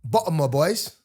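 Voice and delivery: put-on English accent, playfully attempted; London accent. Guest given a test phrase, mock London accent. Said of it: "Give him something to say in, in English".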